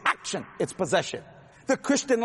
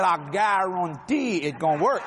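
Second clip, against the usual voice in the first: put-on Cajun accent; 2 semitones lower, slower than usual. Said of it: "I'm a Cajun".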